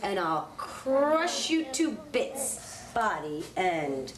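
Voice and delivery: a slow, lightly voiced big billy goat. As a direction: drag it out like a boastful goat. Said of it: "That was what the big billy goat said".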